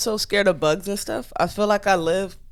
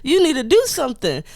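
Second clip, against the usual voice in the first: retold plea; 8 semitones higher, 4 dB louder than usual. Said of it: "I'm like".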